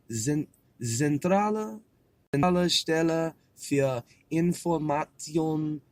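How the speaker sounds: careful, halting "Zentrale Stelle für Information"; practising German pronunciation. Real, not acted. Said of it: "Let's work on this".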